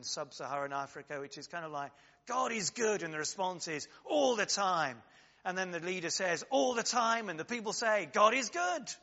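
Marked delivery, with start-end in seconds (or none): 2.3-8.9 bright, rising liturgy call, loud and high; joyful call and response. Retold or imitated. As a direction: proclaim it like a glad congregation. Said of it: "phrase used in African liturgies".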